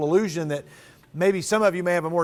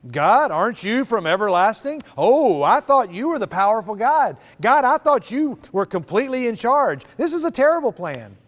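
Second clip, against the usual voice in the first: sarcastic; 3 semitones higher, 4 dB louder than usual. Acted. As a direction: needle God with a sarcastic bite. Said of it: "This almost sounds like sarcasm".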